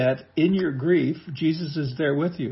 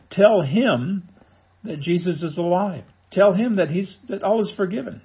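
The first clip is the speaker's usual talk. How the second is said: urgent proclamation; 5 semitones higher than usual. Real, not acted. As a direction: proclaim it like news that can't wait. Preacher urging the good news.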